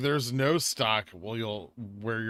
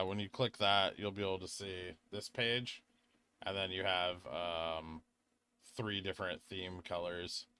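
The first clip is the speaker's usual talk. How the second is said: ASMR voice; 6 dB quieter than usual. Real, not acted. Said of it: "I've been doing the A S M R voice all day".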